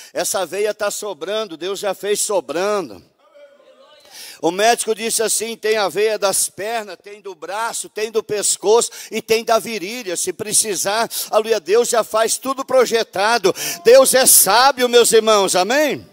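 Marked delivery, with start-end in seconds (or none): 4.4-16.1 louder, higher preaching; fervent preaching. Acted. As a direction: drive the point home to the brothers.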